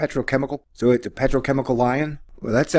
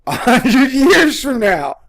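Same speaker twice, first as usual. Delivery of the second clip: real laughter pushing the voice higher; cracking up; 10 semitones higher, 5 dB louder, much slower than usual. Real, not acted. Host failing to pitch an absurd loan seriously, cracking up. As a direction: lose it laughing through the words. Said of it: "can't even say it with a straight face".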